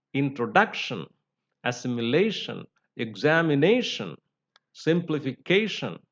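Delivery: each word from "Pronunciation" to "explanation" stressed just before the final -tion; penultimate stress. Shown as a demonstration. Teacher showing how to stress, weight before -tion. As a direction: list "application, introduction, assimilation" and the rest, leaning on the next-to-last syllable. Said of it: "one before the last".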